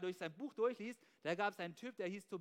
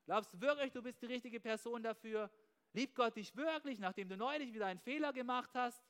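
voice of negative thoughts. Retold or imitated. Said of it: "schlechte Gedanken einnisten".

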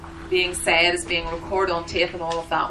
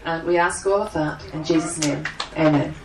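prayer; 2 semitones lower than usual. Acted. Opening prayer before the seminar.

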